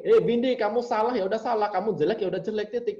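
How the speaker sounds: high, loud and blunt, no softening; blunt German boss. Retold or imitated. German colleague bluntly telling Windy she is wrong. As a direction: fire the verdict straight at her. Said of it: "misal gini".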